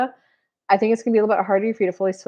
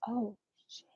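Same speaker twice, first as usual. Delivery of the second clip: dawning dismay; 16 dB quieter than usual. Retold or imitated. Realising she botched the gift.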